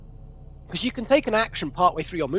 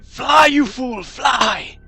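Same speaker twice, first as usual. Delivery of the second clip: shouted quote; 3 semitones higher, much slower than usual. Acted. Quoting Gandalf shouting.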